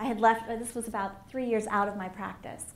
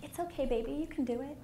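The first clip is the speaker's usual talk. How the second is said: soft, higher, tender inner voice; little teeny whisper; 4 semitones higher, 5 dB quieter than usual. Acted. Inner pilot light reassuring the frightened speaker, small soft voice. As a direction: gently reassure in a small hushed voice. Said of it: "this little teeny whisper".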